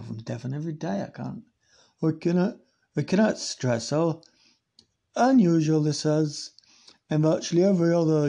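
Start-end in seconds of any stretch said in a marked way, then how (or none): 2.0-8.3 put-on Plymouth accent. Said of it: "So what's Plymouth?".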